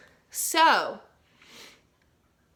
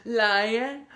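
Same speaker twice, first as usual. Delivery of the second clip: big lion; 3 dB louder than usual. Shown as a demonstration. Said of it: "make everything in your face big".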